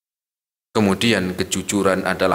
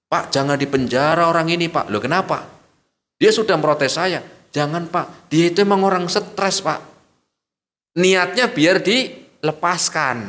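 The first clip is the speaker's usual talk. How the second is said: pleading neighbours; 6 semitones higher than usual. Acted.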